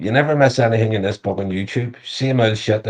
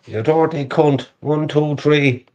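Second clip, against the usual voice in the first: hammed-up Irish accent, a little higher; put-on Irish accent; 3 semitones higher than usual. Shown as a demonstration. Showing off accents on request, lightly put-on Irish accent. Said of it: "A Geordie accent and an Irish accent".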